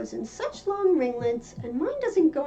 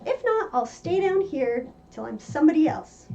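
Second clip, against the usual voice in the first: a lightly voiced young Alice making up her mind; girl's determined voice; 2 semitones higher than usual. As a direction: play Alice, stubborn and a bit raised. Narrator voices Alice's resolve.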